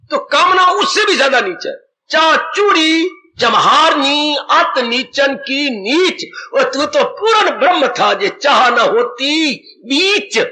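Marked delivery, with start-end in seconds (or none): 2.1-10.4 very slow, drawn-out scripture verse; solemnly paced preacher's recitation. Acted. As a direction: stretch each phrase of the couplet.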